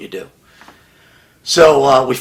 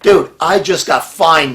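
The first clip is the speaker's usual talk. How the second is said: exasperated outburst; 7 semitones higher, 7 dB louder than usual. Retold or imitated. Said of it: "I said".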